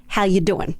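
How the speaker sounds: put-on a touch of New York accent, casual tough greeting; lightly voiced New York street greeting. Woman turning to a possible follower, mild New York accent. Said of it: "with my best New York accent".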